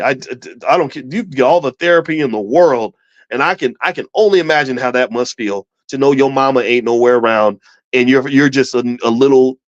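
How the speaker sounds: usual speaking voice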